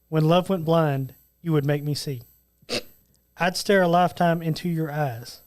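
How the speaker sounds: romantic lyric reading. Acted. Reads rock lyrics as a Valentine's poem, romantic recitation. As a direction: recite it gently, pausing after each line.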